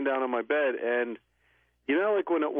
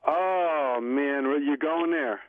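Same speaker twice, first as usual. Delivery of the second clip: reluctant protest; 2 semitones higher, much slower than usual. Real, not acted. Co-host asked to tell his ghost-touch story, reluctant protest. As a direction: groan it slowly, put on the spot.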